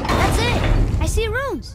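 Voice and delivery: high, loud cry of discovery; triumphant shout. Acted. Boy crying out to his father after solving the puzzle, loud and triumphant.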